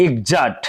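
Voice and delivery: এক্সাক্ট said egzakt; voiced gz in এক্সাক্ট; teacher modelling gz. Shown as a demonstration. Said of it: "জ উচ্চারণ হচ্ছে এক্সাক্ট".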